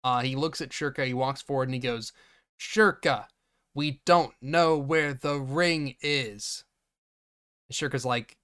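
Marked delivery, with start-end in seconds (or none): 2.6-6.6 slow, stilted bit-actor reading; mock wooden delivery, dragged out; bad line delivery. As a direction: read it like a wooden extra. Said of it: "this guy's delivery is bad".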